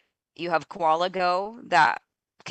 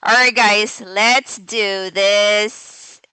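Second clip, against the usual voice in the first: hyped giveaway announcement; 3 semitones higher, 3 dB louder, slower than usual. Real, not acted. Spinning the wheel for giveaway.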